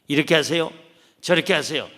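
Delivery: bossy counselor lecturing. Retold or imitated. 상담자가 내담자에게 훈계하며 지시하는 말투. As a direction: tell them what to do like a know-it-all adviser. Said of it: "내가 어떤 코칭을 하는 게 아니에요".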